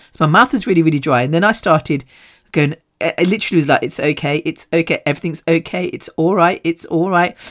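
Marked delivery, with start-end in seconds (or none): 3.8-7.4 soft, repeated self-reassurance; understated imitation of soothing oneself; coaxing oneself. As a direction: quietly talk yourself down. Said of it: "Trying to, like, coax myself".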